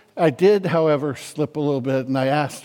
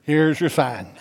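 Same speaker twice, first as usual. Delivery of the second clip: put-on deadpan catchphrase in a light Southern accent; Bill Engvall. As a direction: drop into a lightly Southern punchline. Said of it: "He's got a real Southern accent".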